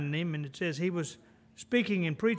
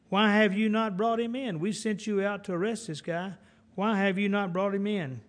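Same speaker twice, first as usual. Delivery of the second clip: demanding rebuke; 3 semitones higher than usual. Acted. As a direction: confront them as the displeased boss. Leaders confront guards returning empty-handed.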